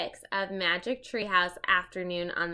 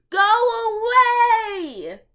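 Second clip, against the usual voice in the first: high, loud yell on go; shouted; 13 semitones higher, 13 dB louder, much slower than usual. Acted. Annie chasing the bratty monkey off, loud high yell. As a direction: fling it at the monkey. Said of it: "Annie shouted".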